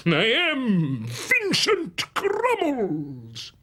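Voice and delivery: slow, grandiloquent showman voice; grand Crummles. Acted. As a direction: roll it out like an old ham actor. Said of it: "a different voice for each character".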